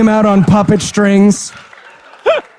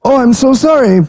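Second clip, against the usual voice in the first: mock scene reading; 6 semitones higher than usual. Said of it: "Let me read it".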